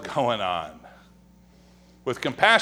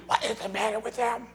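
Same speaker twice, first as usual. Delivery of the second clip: mock churchgoer murmur; 5 semitones higher, 6 dB quieter than usual. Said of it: "We say it in our whisper voice".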